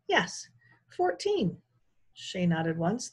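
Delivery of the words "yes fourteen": slow, high and drawn out; slow emphatic. A narrator's reading. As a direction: stretch out fourteen, very sure. Shay insists slowly.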